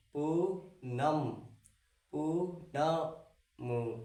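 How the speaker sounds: पूनम drawn out very slowly and softly; slow sounding out. Shown as a demonstration. Teacher drawing out the name to show the aa sound. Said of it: "अब देखो".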